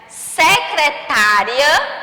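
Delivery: "Secretária" very slow, stressing tá; slow teaching read. Shown as a demonstration. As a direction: spell out "Secretária" slowly for kids. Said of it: "ler agora algumas palavras". (bem devagar, marcando o "tá")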